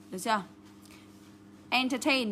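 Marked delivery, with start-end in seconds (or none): 1.7-2.3 Entertain as en-ter-TAIN; stress on last syllable. Shown as a demonstration. Teacher marking where stress falls, Entertain as enter-TAIN. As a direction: land the weight on TAIN in Entertain. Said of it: "nhấn vào đây".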